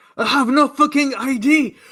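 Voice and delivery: very high, shrill, all-out scream at top volume. In a role-playing game as something approaches: screaming at the top of lungs. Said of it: "I'm just screaming at the top of my lungs".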